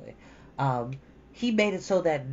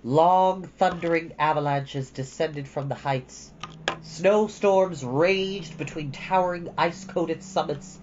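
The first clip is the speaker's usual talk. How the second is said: story narration; 3 semitones higher than usual. Acted. Reading the book to viewers in a storytelling voice. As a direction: paint the storm for the listeners. Begins reading chapter aloud.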